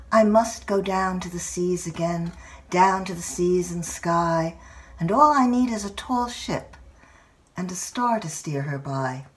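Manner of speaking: measured verse, fading to a whisper at the end; poem recital. Acted. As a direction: recite it to her across the kayak, letting the last line fall away.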